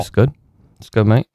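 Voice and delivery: put-on British lad accent, bruv; mock British geezer voice. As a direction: play a cocky British wrestler. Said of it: "you were trying to sound, like, British".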